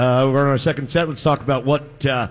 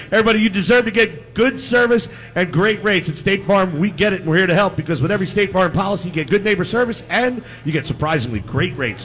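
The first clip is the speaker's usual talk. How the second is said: ad read. Acted. Host reads a sponsor ad.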